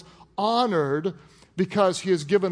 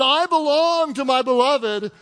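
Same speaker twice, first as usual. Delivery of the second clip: devoted; 6 semitones higher, 4 dB louder than usual. Retold or imitated. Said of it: "She says".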